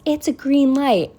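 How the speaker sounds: high, loud mock of the driver's yell. Imitating the driver yelling at her at the crosswalk, mock loud. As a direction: throw her snotty yell back. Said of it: "and then yells".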